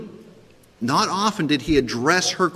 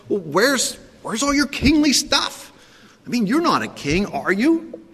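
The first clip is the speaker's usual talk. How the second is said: mocking sarcastic ridicule, pitched higher; 8 semitones higher than usual. Pilate mocking the bound prisoner, sarcastic. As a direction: sneer at the so-called king. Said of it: "This is ridicule... so full of sarcasm".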